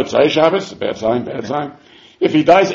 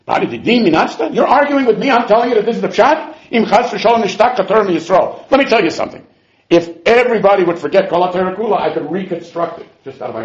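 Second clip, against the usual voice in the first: higher-pitched mock indignation; mildly indignant arguing; 4 semitones higher than usual. Rebbe Hanina fighting with Rebbe Chia, mildly indignant. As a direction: act out a scholar bristling at being challenged. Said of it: "Rebbe Hanina would fight with Rebbe Chia".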